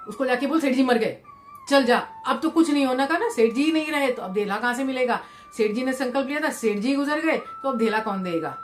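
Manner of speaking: angry miser. Acted. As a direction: snap out the orders in a temper. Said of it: "मायालाल को इतना गुस्सा आया".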